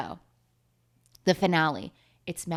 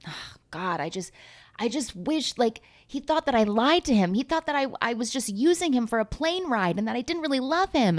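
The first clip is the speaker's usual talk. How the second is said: higher, sighing mock heartbreak; mock lovelorn lament; 5 semitones higher than usual. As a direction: act out a wistful, wronged girlfriend. Retold lovelorn Miranda pleading to producer.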